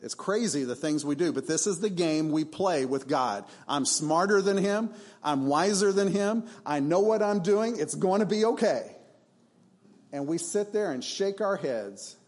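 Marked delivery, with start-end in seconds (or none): 3.7-8.9 higher, cocky mock boast; a lightly hammed-up arrogant brag. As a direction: play the smug fool who thinks he knows better. Mock arrogant people talking to God.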